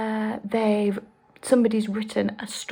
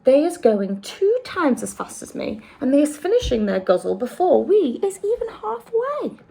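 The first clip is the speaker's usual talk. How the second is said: quick, lightly voiced friendly giant; BFG voice; 5 semitones higher, 4 dB louder than usual. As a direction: explain it like the big friendly giant. BFG character voice.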